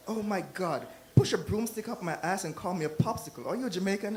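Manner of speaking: excited American. Retold or imitated. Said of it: "this man, he came to me".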